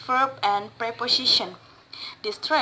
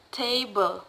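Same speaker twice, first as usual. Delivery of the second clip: table with the stress on TA; stress on first syllable. Shown as a demonstration. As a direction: lean on TA in table. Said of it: "word stress put in the first".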